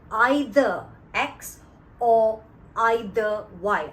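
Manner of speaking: "either" drawn out and punched each time; slow, weighty emphasis on both uses of "either"; stress on either. Shown as a demonstration. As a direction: lean hard and slowly on "either". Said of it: "I'm emphasizing on the word either".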